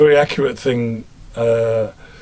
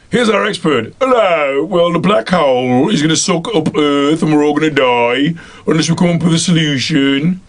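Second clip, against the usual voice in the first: a Midlands scientist, slightly higher and louder; Midlands expert; 4 semitones higher, 3 dB louder than usual. Acted. Imagined film expert warning of black hole, Midlands accent. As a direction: announce doom in a Midlands accent. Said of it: "a quantum physicist from the Midlands".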